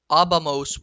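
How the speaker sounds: abamos with the stress on the first a, ah-BAH-mos; accent on the a. Shown as a demonstration. Teacher showing Spanish speakers the imperfect ending, stressed a. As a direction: lean on the a of abamos. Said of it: "with an accent on the A".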